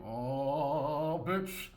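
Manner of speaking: escalating mock screaming at the partner; mock yelling. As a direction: ham up an angry screaming fit, climbing. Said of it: "you don't gotta yell, scream".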